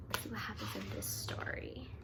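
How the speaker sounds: soft hushed whisper. Real, not acted. Whispering to viewers before reading. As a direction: invite them in quietly.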